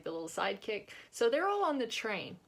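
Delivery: ordinary talk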